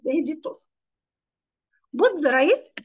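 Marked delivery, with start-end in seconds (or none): 2.0-2.7 very slow, word by word; slow dictation. Shown as a demonstration. Teacher reading a recipe step to pupils, very slow.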